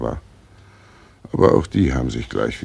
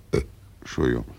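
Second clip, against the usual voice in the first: belch and excuse; 2 semitones lower, much faster than usual. Acted. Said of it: "Warum rülpsen Sie denn fortwährend so ekelhaft".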